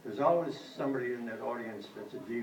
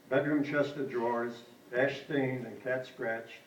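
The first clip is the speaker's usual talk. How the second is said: measured recital with falling phrase ends; poetry reading. A narrator's reading. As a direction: read a poem aloud, line by line. Reads third poem aloud.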